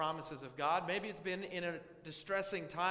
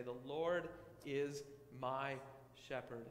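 slow, soft, sure declaration of The Lord is my shepherd; confident; 3 semitones lower, 4 dB quieter, slower than usual. Shown as a demonstration. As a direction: say it quietly and slowly, with full trust. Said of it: "you can confidently say".

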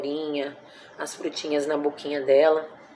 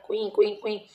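guinea pig squeak; 4 semitones higher, slower than usual. Retold or imitated. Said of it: "ela já começava a gritar".

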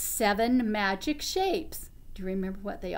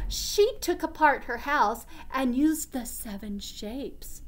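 put-on reading to children; 2 semitones higher than usual. A narrator's reading. Reads story to children.

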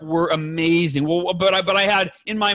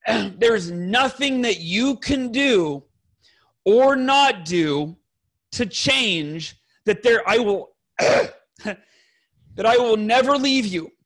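halting, choked-up vow with long pauses; slow, deliberate promise, clearing the throat; emotional; 2 semitones higher, much slower than usual. Retold or imitated. Husband reading his pledge to his wife, emotional. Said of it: "sorry, I'm getting emotional".

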